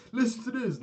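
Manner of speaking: high, loud pretend holler; mock announcement shout. Pretending to tell the whole restaurant, mock shouting. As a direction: call out to the room, hammed up.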